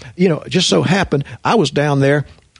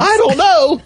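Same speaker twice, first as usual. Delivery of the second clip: put-on teenage girl voice, pitched way up; high whiny girl voice. Coach mimicking the nervous sister, marked high girl voice. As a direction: mimic a nervous teen girl, laughing between takes. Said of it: "She said".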